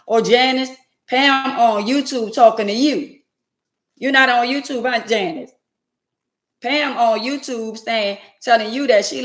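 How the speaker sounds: calling out excitedly. Real, not acted. Calling out to Janice.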